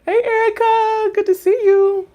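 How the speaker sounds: high, drawn-out hello; delighted greeting. Real, not acted. Welcoming Erica by name, high delighted greeting.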